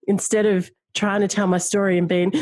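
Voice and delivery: talking through real laughter, pitch jumping up; laughing through tears. Real, not acted. Telling the interviewer she can now talk while laughing. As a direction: laugh as the words tumble out. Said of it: "I actually started laughing".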